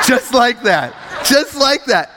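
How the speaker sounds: high, shouted emphasis; comically insistent high shout; emphatic insistence. Real, not acted. Insists on his dramatic summons.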